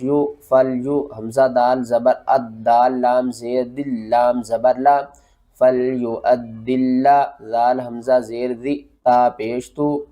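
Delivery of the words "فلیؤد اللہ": slow recited model. Shown as a demonstration. Teacher models joining for students, slow recitation. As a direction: stretch the joined syllables slowly. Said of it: "teacher models the joined reading".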